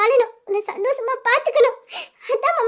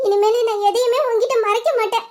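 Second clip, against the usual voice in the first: tearful. Acted. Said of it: "இப்ப வச்சு நீ அழுவாம இருக்கலாம்ல".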